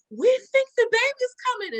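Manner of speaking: high, excited mothers; team moms. Retold or imitated. Team moms checking her drawers, high and excited. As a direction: chirp it like the moms. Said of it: "They like".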